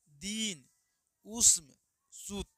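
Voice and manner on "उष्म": उष्म called out loud and high; long vowel demo. Shown as a demonstration. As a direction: hit the vowel hard and long. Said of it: "बोलने में थोड़ा समय लगता है". (उष्म ज़ोर से खींचकर)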